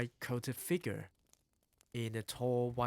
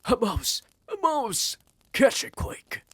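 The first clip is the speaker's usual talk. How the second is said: high, loud frantic yells; shouting; 11 semitones higher, 10 dB louder than usual. A narrator's reading. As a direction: shout the alarm across the kitchen. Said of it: "They were shouting".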